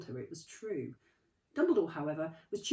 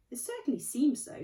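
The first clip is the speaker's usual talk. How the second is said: Dumbledore; 8 semitones higher, 6 dB louder than usual. Acted. Dumbledore voiced.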